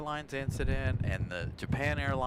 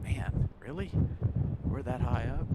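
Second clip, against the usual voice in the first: higher, mock-amazed "Man, really?"; 3 semitones higher than usual. Passenger looking down at the ocean, amazed at the height. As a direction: marvel at the height with a rising question. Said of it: "You're like".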